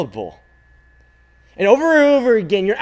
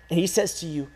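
usual speaking voice

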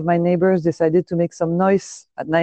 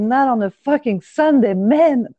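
exasperated, drawn-out "oh my God", pitched up; retold snapping; 4 semitones higher, slower than usual. Snapping at whoever was outside on a Sunday morning, retold annoyance. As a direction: replay an indignant outburst at the neighbour. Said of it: "snapped outside".

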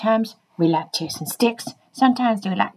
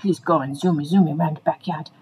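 lower, lightly voiced human onlooker; imitated human onlooker; 6 semitones lower than usual. Human commenting on the zooming dog, lightly imitated. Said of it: "next time you see us running really fast, going".

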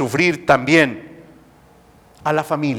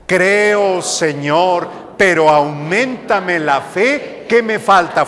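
leading the congregation. Shown as a demonstration. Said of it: "A ver todos".

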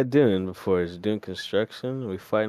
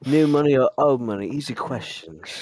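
mock British accent; British accent, punchy then tossed off; 4 semitones higher, 3 dB louder than usual. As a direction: lightly play up a British accent. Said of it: "What does your British accent sound like".

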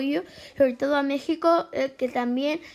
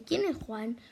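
amenaza grave y contenida; voz amenazante; 2 semitones lower, 7 dB quieter than usual. A narrator's reading. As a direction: pregunta como un matón que intimida. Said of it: "pregunta con voz amenazante". (un matón pregunta en el bar, amenazante)

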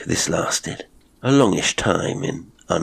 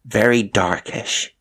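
slow, higher, unsure addition; stumbling; 4 semitones higher, slower than usual. A narrator's reading. Cook describing a stranger, hesitant. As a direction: add it slowly, feeling for the words. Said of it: "she stumbled".

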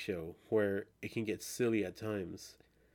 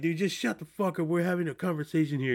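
higher, annoyed Liam telling the boss to butt out; a lightly voiced impatient Liam, pitched up; Liam brushing someone off; 7 semitones higher, 3 dB louder than usual. Liam shutting up the alien boss, lightly voiced and annoyed.

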